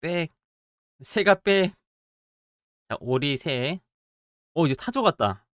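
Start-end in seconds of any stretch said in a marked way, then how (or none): 0.0-1.7 mock bird squawk. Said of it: "아, 꽥이야, 빽이야?".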